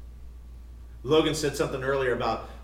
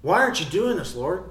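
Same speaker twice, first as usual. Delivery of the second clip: higher, louder mock complaint; retold arrogant pride; 4 semitones higher, 4 dB louder than usual. Preacher retelling his impatient question to the Lord, mildly arrogant. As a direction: challenge God with a touch of cockiness. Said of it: "There's arrogance and pride".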